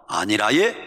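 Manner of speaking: low start rising in a Gyeongsang lilt; Gyeongsang dialect. Shown as a demonstration. Preacher compares polite refusals, in Gyeongsang dialect. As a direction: say it like a Gyeongsang local. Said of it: "경상도 말".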